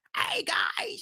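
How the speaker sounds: worn-out, hoarse, scratchy, breathy rasp. Showing how he doesn't want to sound when free agency comes: scratchy voice. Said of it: "with the all scratchy voice and stuff".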